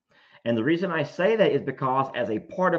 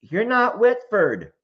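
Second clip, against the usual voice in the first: slow, higher imitation of her trying to yell; mock attempt at yelling; 7 semitones higher, 4 dB louder, slower than usual. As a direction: draw it out as a tame mock yell. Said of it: "yell it".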